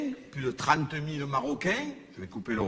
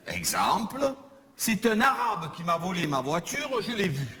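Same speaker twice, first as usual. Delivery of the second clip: exemple de dictionnaire joué; 3 semitones higher than usual. Shown as a demonstration. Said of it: "définition qui est donnée au mot arabe".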